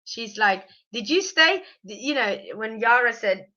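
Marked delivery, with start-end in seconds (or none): 0.9-1.6 higher, lightly imitated Southern accent; little Southern accent. Imitating the mother-in-law's question, little Southern accent. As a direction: ask it with a hint of the American South. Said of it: "doing the little southern accent".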